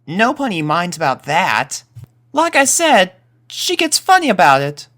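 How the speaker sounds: a friend shrugging off the worry; reassuring colt. Acted. Rumble and Pip trading words about Pip's mom, high colt voice.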